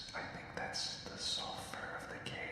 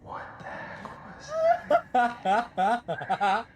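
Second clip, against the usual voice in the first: nervous laugh; 11 semitones higher, 19 dB louder, much slower than usual. Real, not acted. Startled by strange noise.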